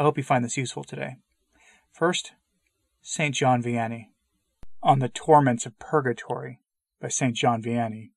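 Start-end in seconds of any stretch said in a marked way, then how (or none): 1.9-8.1 put-on earnest preacher reading an old sermon aloud; solemn sermon read. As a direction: read it like a pulpit homily, measured and grave.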